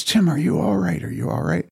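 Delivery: high-pitched urgent father checking on his son; acted frantic concern, held in. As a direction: retell an anxious dad's worried question. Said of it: "And he's frantic".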